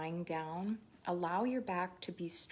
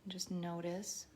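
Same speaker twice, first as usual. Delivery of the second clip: unhurried meditation guide with long pauses; guided meditation. Real, not acted. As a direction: lead them gently through each breath, leaving space. Leads breathing and body scan.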